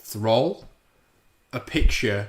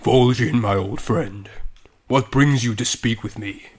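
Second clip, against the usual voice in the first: lightly voiced Thrall-style orc leader; measured, stately greeting to an old comrade; a touch of solemn game-character acting. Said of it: "I'll be Thrall".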